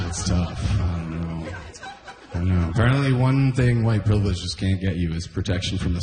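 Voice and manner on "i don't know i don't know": normal talking voice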